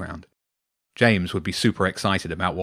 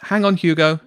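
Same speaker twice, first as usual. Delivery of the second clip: higher, louder polite stalling; forced niceness; 8 semitones higher, 5 dB louder than usual. A narrator's reading. Jenny holding off booming Hugo, as nicely as she can. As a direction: put him off as nicely as possible. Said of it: "as nicely as she could".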